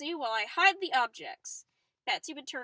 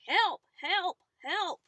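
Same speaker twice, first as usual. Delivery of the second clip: mock yell for help, higher; 6 semitones higher, 6 dB louder, slower than usual. Stranded man calling out, yelling for help. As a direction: call out for help from the river. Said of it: "he heard somebody yelling".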